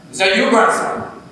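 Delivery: yelling back. Retold or imitated. Grandfather calling back to the grandson, a high yell. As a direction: shout it back across the street. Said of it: "and yells back".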